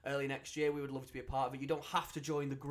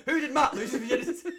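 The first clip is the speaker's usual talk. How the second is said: loud, fast, laughing quiz question; laughing game show host; 14 semitones higher, 10 dB louder, faster than usual. Real, not acted.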